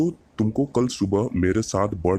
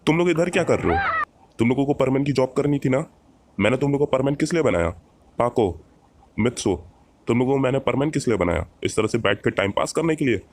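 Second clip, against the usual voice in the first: higher-pitched telling-off, mildly cross; stern scolding; 3 semitones higher than usual. Acted. Birdman scolds Pako and Mitsu for sitting idle, stern scolding. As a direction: scold them for slacking off.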